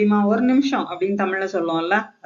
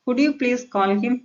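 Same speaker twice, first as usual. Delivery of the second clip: slow, higher polite question; polite request; 5 semitones higher, much slower than usual. Shown as a demonstration. Teacher rewords an order for learners, polite request. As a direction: ask courteously, rising at the end. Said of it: "இந்த மாதிரி பொலைட்டா பேசினா".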